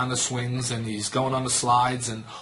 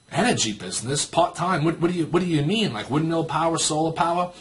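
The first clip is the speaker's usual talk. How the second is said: mild mock bafflement, rising higher; puzzled questioning; 4 semitones higher than usual. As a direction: lightly act out a confused listener. Imitates puzzled listeners questioning the pitch.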